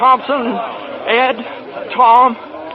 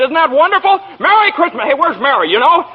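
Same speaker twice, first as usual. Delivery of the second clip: high, elated, almost giddy; bursting with relief and joy; overjoyed; 5 semitones higher than usual. Acted. Husband home on Christmas Eve, greeting reporters, giddy with joy.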